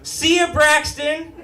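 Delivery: high-pitched called-out goodbye; hammed-up cheery send-off; breezy mock farewell. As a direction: toss it out high and carefree. More mock carefree farewells.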